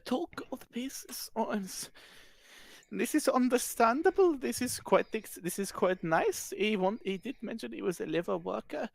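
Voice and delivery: lightly voiced posh woman fussing; posh lady voice. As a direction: play the flustered refined lady handing over a purse. Posh woman haggles with smith.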